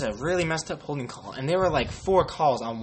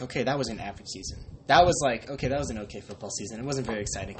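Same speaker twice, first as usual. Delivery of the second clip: unimpressed; 3 semitones lower than usual. Retold or imitated. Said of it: "I'm just like".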